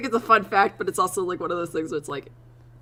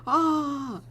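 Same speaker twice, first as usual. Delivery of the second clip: hyped chat; 11 semitones higher, 4 dB louder, much slower than usual. Retold or imitated. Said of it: "The whole chat".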